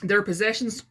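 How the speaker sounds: measured read-aloud with phrase-by-phrase pauses; story narration. A narrator's reading. Author reading her satirical novel to viewers, measured narration. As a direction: read it out carefully as book prose. Reads aloud from own book.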